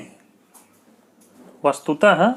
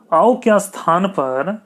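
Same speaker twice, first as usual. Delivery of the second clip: slow dictation; 3 semitones higher, slower than usual. Shown as a demonstration. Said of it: "teacher dictates slowly".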